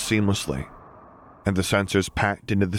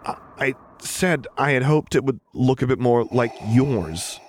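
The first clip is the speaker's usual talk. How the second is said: higher, firmer repeat after a stammered start; repeated a bit louder; 6 semitones higher than usual. A narrator's reading. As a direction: repeat the admission more clearly, pitch raised. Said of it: "repeated the statement a bit louder".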